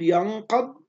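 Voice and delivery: "ينقض" drawn out, with a thickened "ق"; slow down "ينقض" to show a full, heavy "ق"; heavy QAF. Shown as a demonstration. Teacher answers a student about the qaf, "ينقض" slow and heavy. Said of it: "حكم حرف القاف نقول".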